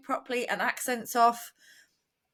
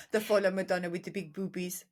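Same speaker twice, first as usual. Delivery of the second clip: put-on French accent; 3 semitones lower, 4 dB quieter, faster than usual. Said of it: "or if it's just hello, hello".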